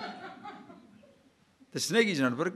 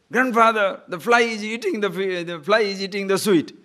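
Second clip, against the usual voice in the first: louder, higher call to wake grandfather; child calling out; 3 semitones higher, 4 dB louder than usual. Retold or imitated. Boy calls out to grandfather.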